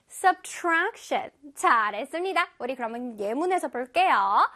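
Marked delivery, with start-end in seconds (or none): 0.1-1.3 "subtraction" with the beat on tra; middle-syllable stress. Shown as a demonstration. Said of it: "중간에 tra 부분에". ("subtraction" 가운데 tra를 강하게)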